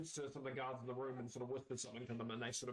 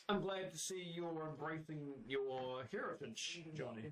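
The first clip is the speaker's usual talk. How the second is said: slow toad voice; 2 semitones higher, slower than usual. Acted. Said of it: "and it goes".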